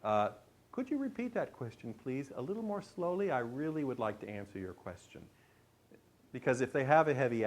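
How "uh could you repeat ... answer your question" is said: very polite. Shown as a demonstration. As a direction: ask courteously, softly pitched up at first. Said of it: "very politely, if you just say".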